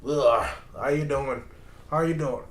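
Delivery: lightly voiced imitation of a guy strolling up to say hi; mock American greeting. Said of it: "that's walks up".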